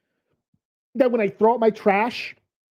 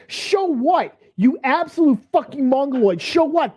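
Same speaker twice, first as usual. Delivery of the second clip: incredulous yell; 5 semitones higher than usual. Real, not acted. Yelling back at the clip.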